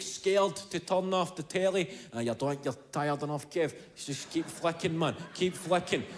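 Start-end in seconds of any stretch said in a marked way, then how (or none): 2.1-6.0 the little voice urging him to stay up; inner voice. Retold or imitated. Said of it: "whatever voice is in there".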